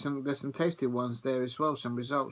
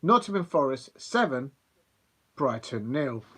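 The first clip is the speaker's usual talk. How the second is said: put-on old pools commentator. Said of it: "I'm gonna try and do it in his accent".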